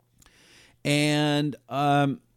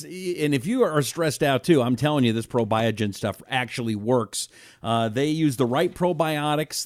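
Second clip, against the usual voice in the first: ad read; 3 dB louder than usual. Acted. Host's live sponsor pitch.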